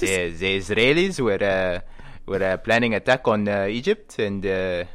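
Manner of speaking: put-on old Egyptian soldier in an Egyptian accent. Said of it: "it's Egyptian".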